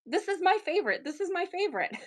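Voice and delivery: mock-gush over a favourite piece; a hint of her own gushing. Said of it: "I always say that".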